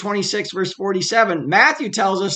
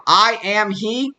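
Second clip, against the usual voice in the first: slow declaration; 2 semitones higher, slower than usual. A narrator's reading. Quoted again, slowed.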